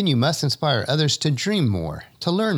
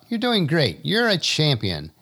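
hollered encouragement; 5 semitones higher than usual. Acted. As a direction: holler it, then slow on champion. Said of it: "I holler out".

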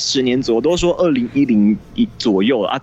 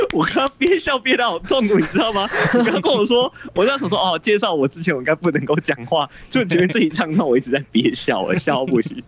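trying not to laugh; 4 semitones higher than usual. Real, not acted.

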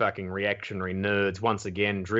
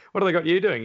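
lightly voiced Sam Neill, higher and louder; a hint of a celebrity pressing the question, pitched up; 9 semitones higher, 7 dB louder, much faster than usual. Backstage to a comedian, Sam Neill asks, higher and louder. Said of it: "Sam Neill asks again".

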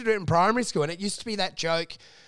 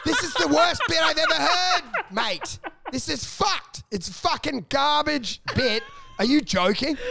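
laughing through a mock rant, a touch higher; laughing insult; 6 semitones higher than usual. Comic telling a bad open micer his bit is garbage, laughing. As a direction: roast him while cracking up. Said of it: "And then I was like".

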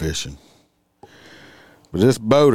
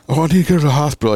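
mock whine; 7 semitones higher, 4 dB louder, much faster than usual. Mocking people's excuse.

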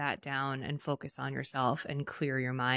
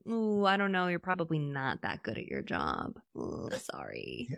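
mock sympathy; 3 dB quieter than usual. Mock unkind remark to a friend.

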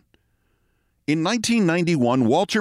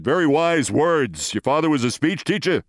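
lightly voiced Brooklyn actor; imitating a weighty verdict; Walter Matthau; 2 semitones higher than usual. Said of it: "Walter looked away from me".

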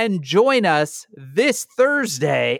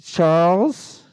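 Rudy Giuliani voice; 2 semitones higher than usual. Pretend. Giuliani on the phone.

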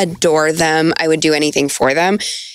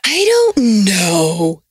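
slow, breathy "I don't know"; whispered; much slower than usual. Real, not acted. Whispering unsure reply about another relationship.

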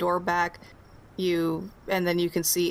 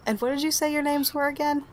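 a hint of a bemused wife, quickening at the end; GM's wife introducing guests, then asking names; 3 semitones higher than usual. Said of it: "And she responds".

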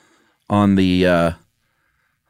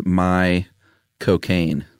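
put-on Michael Caine accent; 2 semitones lower, much slower than usual. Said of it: "Michael Caine in the correct accent".

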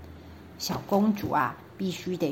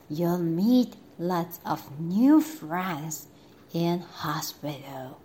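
soothing prime minister; 3 semitones lower, slower than usual. Acted. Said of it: "said the prime minister".

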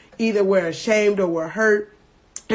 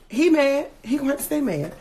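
taunting; 5 semitones higher than usual. Real, not acted. Taunting the devil.

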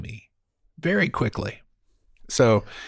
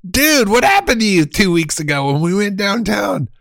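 annoyed friend; 7 semitones higher, 4 dB louder than usual. Retold or imitated. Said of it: "it's Bob".

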